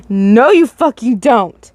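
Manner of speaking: slow, menacing hissed threat. Acted. Attacker hissing at the dreamer as the door closes, slow and menacing. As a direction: drag each word out as a threat. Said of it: "he hisses".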